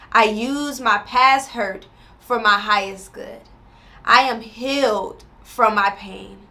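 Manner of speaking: slow, measured affirmation read. Acted. Creator leads viewers through healing affirmation, slowly. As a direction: let each word land slowly.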